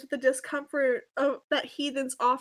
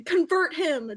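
brave demand; 4 semitones higher than usual. Acted. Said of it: "demanded bravely".

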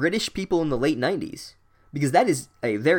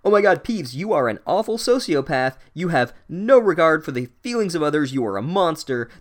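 higher-pitched indignant scolding; mock outrage; 4 semitones higher, 4 dB louder than usual. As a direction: act out a shocked telling-off. Imagined outraged scolding of Peeves.

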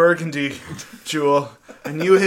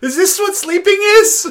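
high laughing question; 14 semitones higher, 5 dB louder than usual. Real, not acted. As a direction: giggle through the question.

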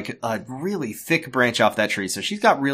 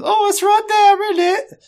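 squeaky high, sing-song teacher; mock a sweet teacher, pitched way up; 3 dB louder than usual. Teacher pointing, mocking.

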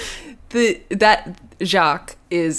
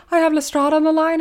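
assistant voice; 11 semitones higher, faster than usual. Retold or imitated. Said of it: "assistant calls and is like".

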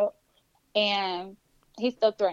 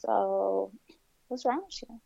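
softly imitated, quietly menacing questions; low creepy tone; 5 dB quieter than usual. Woman imitating the man driving her away, low creepy tone. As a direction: keep it hushed, imitating a creepy driver. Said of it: "like, really low".

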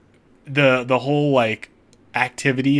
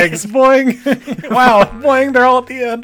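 high, loud bouncy cartoon voice; squeaky springy egg bouncing; bouncy springy boingy voice; 13 semitones higher, 11 dB louder than usual. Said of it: "I'm gonna do a little boing".

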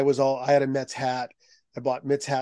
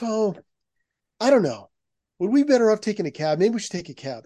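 higher, louder worried mother pleading; nervous mom; 7 semitones higher, 4 dB louder than usual. Retold or imitated. Mother nervous in New York, urging her son to ask, higher worried voice. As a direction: play the anxious mom, pitched up.

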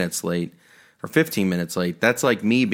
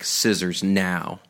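slow stern order; 3 semitones lower, much slower than usual. Retold or imitated. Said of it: "he's gonna be like".

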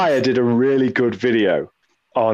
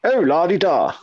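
la-di-da Brit; 3 semitones higher than usual. Retold or imitated. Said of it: "thinks Britain is this very".

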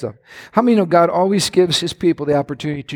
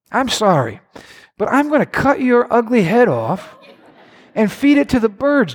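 swaggering threat; 4 semitones higher than usual. Acted. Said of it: "And then David starts going".

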